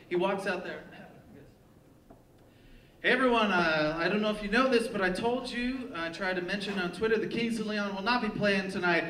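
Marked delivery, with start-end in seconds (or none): 3.0-9.0 working the crowd from the mic; stage announcement. Retold or imitated.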